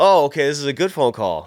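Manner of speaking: laughing with relief; relieved laugh through the line. Retold or imitated.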